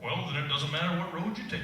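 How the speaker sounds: a lightly done Texan cat. Retold or imitated. Dad reading Alice to his kids, cat in a lightly voiced Texas accent. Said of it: "they wanted the cat to be from Texas".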